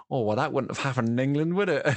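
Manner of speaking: a hint of mock Essex; terrible Essex accent. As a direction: badly imitate an Essex passenger's accent. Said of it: "Essex accent I've ever done".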